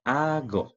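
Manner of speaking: Ago sounded out with the class; teacher and class saying Greek together. Shown as a demonstration. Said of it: "Can you say it with me?".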